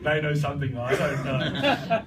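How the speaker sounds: low, mock-spooked aside; intrigued onlooker. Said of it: "You just go".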